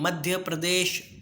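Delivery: slow, careful मध्य प्रदेश, every syllable clear; model pronunciation. Shown as a demonstration. Teacher modelling मध्य प्रदेश slowly for students to repeat. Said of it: "जैसे हम बोलते हैं, वैसे आपको बोलना है".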